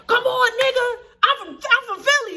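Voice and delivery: high-pitched mock Philly accent. Retelling Kelly panicking in the crowd, Philly accent. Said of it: "That Philly accent straight turned on".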